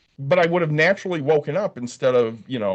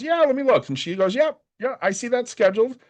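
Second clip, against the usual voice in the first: higher-pitched receptionist checking the schedule; receptionist's voice; 9 semitones higher than usual. Retold or imitated. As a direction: put on a high, breezy front-desk voice. Acting out the receptionist's replies.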